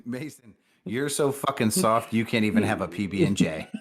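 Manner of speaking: mock the guy with a laugh; teasing. Cohost jokingly taunts coworker, laughing.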